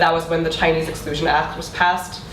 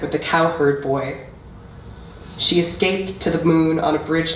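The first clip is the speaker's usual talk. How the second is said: measured recital with deliberate pauses between phrases; spoken-word poem, evenly paced and solemnly delivered; poetry reading. Acted. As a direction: read it as a poem, line by line, letting each image land. Reads own poem aloud.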